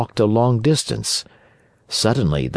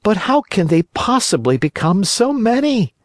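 put-on high boyish puppet voice, much higher; Pinocchio voice; 14 semitones higher than usual. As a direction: play the wooden boy, frightened and eager. Pinocchio asks.

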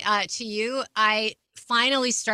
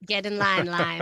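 battle cry; 3 semitones lower than usual. Pretend. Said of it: "That's your battle cry".

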